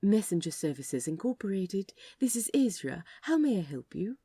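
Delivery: smooth, polished phone greeting; the easy customer-service voice he's used a thousand times; practiced receptionist. Acted. Aziraphale answering the office phone, smooth practiced receptionist voice. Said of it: "answered with practiced ease".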